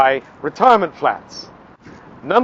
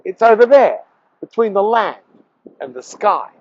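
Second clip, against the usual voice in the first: patronizing; 4 semitones higher than usual. Acted. Hotel owner pointing out the sea view to a guest, patronizing. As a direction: spell it out as if to an idiot. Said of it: "in the most patronizing way possible".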